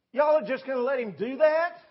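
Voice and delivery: put-on outraged kid demanding why nobody fights; indignant challenge. David challenges the scared army.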